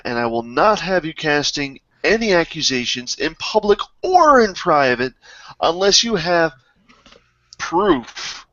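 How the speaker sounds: firm, emphatic rebuke in character; acted indignation. Angry noblewoman rebukes her bodyguards for accusing a trusted servant, acted indignation. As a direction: lay down the law to the group. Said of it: "she slams her fist on the table and says".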